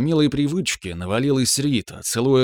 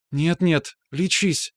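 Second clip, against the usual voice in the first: put-on high, quick girl's protest; lightly voiced girl; girlfriend protesting; 6 semitones higher, much slower than usual. A narrator's reading. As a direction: hurry to stop him, playfully. Rita protesting lovingly.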